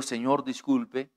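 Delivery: soft, slow, humble "Señor, disculpe"; a gentle, courteous tone of voice; gentle apology. Shown as a demonstration. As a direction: apologize meekly and slowly. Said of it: "con este tono de voz".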